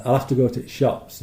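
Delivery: lightly done Yorkshire accent with dropped aitches; Yorkshire example, swallowing little words. Shown as a demonstration. Speaker showing how Yorkshire drops sounds, light Yorkshire accent. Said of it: "in Yorkshire, you get a lot of, uh, H's missing off words".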